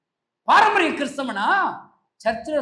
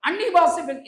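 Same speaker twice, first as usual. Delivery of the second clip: raised, emphatic pulpit rebuke; fervent preaching; 5 semitones higher, 5 dB louder than usual. Real, not acted. Preacher rebukes church dancing while Jesus weeps, fervent. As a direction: press each point home to the congregation.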